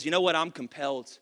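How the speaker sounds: quiet, awed apostle voice; Paul speaking. Acted. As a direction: let Paul murmur it, deeply moved. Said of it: "The Apostle Paul ... says".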